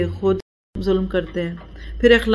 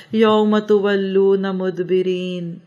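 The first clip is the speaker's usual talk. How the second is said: slow, measured Arabic recitation; slow scripture reading in Arabic; Quran recitation; much slower than usual. Real, not acted. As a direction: recite the verse with drawn-out vowels.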